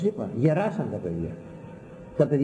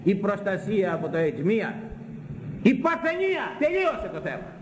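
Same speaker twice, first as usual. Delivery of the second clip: fervent proclamation; 9 semitones higher than usual. Acted. Preacher proclaiming the only protection.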